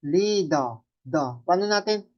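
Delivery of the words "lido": "lido" as LEE-dah, final r dropped; long first vowel, open ah ending on "lido"; Japanese-style pronunciation. Shown as a demonstration. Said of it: "Pag sounds nito nagiging".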